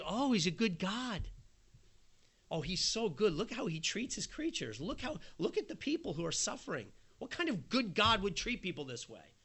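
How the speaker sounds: a touch of sneering mockery; sarcastic scoffer, mildly voiced; scoffing sarcasm. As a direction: jab at the believer lightly. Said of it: "stick the finger in your eye".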